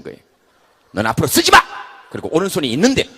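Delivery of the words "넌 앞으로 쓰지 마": loud, angry ban; angry order. Acted. Head forbids right hand, loud angry order. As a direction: bark it as a banishment.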